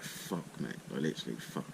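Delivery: whispered swear of disbelief; awed hushed curse; stunned whisper. Retold or imitated. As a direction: breathe it out, almost voiceless. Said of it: "and I was like".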